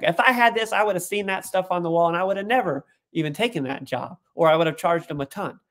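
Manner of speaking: mock grumbling over a bad deal; retold anger. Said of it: "he was just angry".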